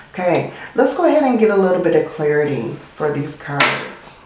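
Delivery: congested, stuffy nose voice; talking through a blocked nose. Real, not acted. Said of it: "I apologize for my sinuses".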